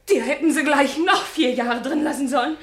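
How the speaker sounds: loud, scornful. Acted. Minna lashes out at him.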